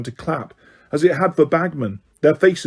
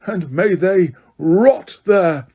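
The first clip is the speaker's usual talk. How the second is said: roaring; 7 semitones higher, slower than usual. A narrator's reading. Crouch to the Dementors, furious roar. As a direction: spit it out with rage. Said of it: "Crouch roared at the Dementors".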